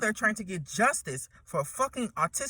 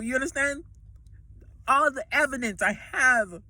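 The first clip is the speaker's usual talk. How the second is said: she wants them all to pay; angry rant; 3 semitones higher than usual. Real, not acted. Furious rant against the government.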